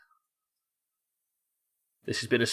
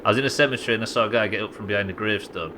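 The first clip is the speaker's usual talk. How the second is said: Yorkshire accent; faster than usual. Shown as a demonstration. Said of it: "You gotta put a Yorkshire accent on it".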